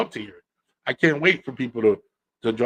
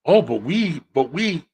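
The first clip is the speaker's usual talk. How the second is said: mock whiny objection; 4 semitones higher, slower than usual. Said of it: "women ... saying".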